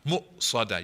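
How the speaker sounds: Mu'sada with a clear stop after Mu; with glottal stop. Shown as a demonstration. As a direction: hamza catch in Mu'sada. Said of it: "you have to stop and go".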